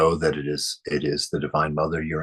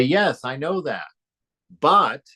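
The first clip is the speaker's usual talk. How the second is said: high, mildly mocking devotee voice; 9 semitones higher, 3 dB louder, slower than usual. Teacher mimicking devotees who ignore the lesson, mildly mocking. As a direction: imitate a know-it-all student brushing it off. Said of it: "and they would say".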